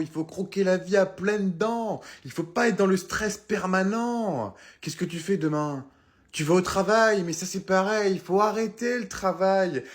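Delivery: slow, lazy stoner drawl; laid-back stoner. Acted. Stoner telling a stressed friend to relax, slow and dreamy. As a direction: stretch the words, totally chilled out.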